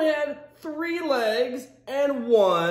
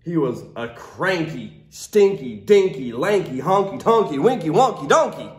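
grumpy refrain; 5 semitones lower than usual. Acted. Cranky donkey refrain.

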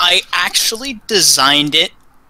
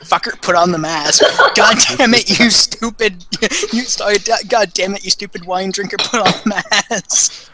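mock nagging mask. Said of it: "being like".

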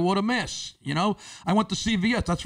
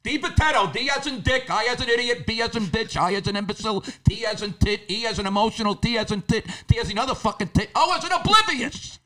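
exasperated spelling with rude examples; 3 semitones higher than usual. Retold or imitated. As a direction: spell the name while insulting him.

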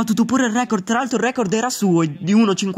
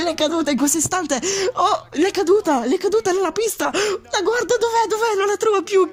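laughing; 8 semitones higher than usual. Real, not acted. Visor falls, laughing.

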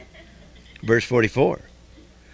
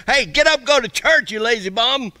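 God's inner voice; 8 semitones higher than usual. Pretend. God nudging a lazy churchgoer, high and teasing. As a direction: wake a lazy sleeper like a voice from within. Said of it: "still voice inside of you say".

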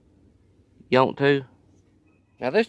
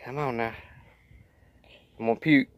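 whispered queasy groan; 2 semitones lower, 6 dB quieter than usual. Real, not acted. Eating watermelon with mustard.

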